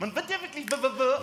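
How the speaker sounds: stammering like a stuck record. Acted. Man fighting to get a word in, stammering. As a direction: get stuck repeating the first sound.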